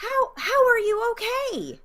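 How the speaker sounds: high alarmed question. Acted. Repeat of shaken question.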